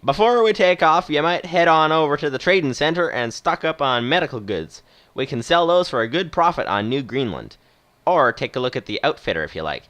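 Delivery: put-on playful Western movie accent. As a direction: give advice as a retired Western captain. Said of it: "doing a sort of Western accent".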